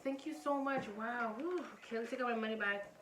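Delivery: gushing thanks. Retold or imitated. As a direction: lay the thanks on thick. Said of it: "She, like".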